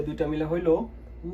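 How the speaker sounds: দুইটা মিলে হইল উ, drawn out slowly; slow blended vowel demo. Shown as a demonstration. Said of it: "এটা উচ্চারণ মিলে". (ধীরে ধীরে যুক্ত স্বরের উচ্চারণ)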